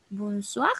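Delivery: "Bonsoir" with a French R closing it; R final francesa. Shown as a demonstration. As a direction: end "Bonsoir" on a throaty French R. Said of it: "termina con una R". ("Bonsoir" con R francesa al final)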